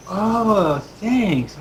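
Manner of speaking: put-on high-pitched kid's thanks; grateful child. Child given a coin to keep, grateful high voice. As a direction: say it high, like a delighted kid.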